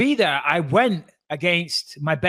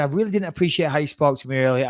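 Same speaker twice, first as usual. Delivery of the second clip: even-toned, civil objection; calm; faster than usual. Retold or imitated. Passenger repeating his complaint to the air hostess, calm and even. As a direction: put the complaint across without heat. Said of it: "I said it very calmly".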